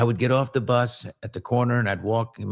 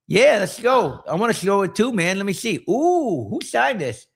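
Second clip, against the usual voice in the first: higher mocking bully voice; bully's lisp; 9 semitones higher, 3 dB louder than usual. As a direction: taunt with a sneering lisp. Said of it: "he had this lisp like this".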